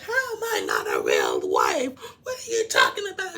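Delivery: loud, indignant outburst; mock furious yelling; retold losing it. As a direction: act out someone losing it, voice leaping up. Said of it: "she lost it".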